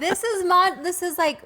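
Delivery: high, loud laughing speech. Real, not acted. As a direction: laugh through the words. Laughing while talking.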